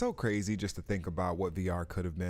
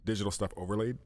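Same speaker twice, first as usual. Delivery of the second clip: hiccups; faster than usual. Real, not acted. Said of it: "I got the hiccups".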